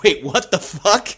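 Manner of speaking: baffled. Retold or imitated. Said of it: "you're like".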